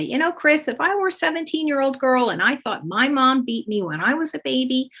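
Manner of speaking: earnest, energized understanding; demonstrated empathy. Shown as a demonstration. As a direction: put yourself in the child's shoes, voice lifted. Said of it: "I'm going to demonstrate empathy".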